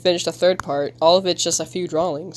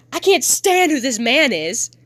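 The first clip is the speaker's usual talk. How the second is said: raised-pitch acted frustration; angry disgust; 5 semitones higher than usual. Kid fed up with parent, angry outburst. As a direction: pitch up in exasperation.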